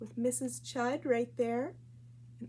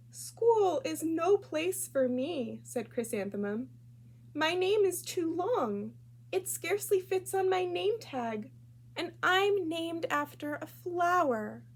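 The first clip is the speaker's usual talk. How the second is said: put-on upset little girl; 6 semitones higher than usual. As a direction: plead it like a hurt little girl. Sad child complains to parents.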